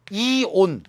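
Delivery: 이온 drawn out, syllable by syllable; spelled-out reading. Shown as a demonstration. Teacher showing students how cation names end, spelled-out reading. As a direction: read 이온 slowly as two clear beats. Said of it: "이렇게 읽어요".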